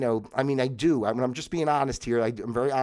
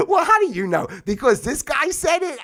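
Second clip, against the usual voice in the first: mocking voice; 13 semitones higher, 7 dB louder than usual. Mocking a doubter's reply.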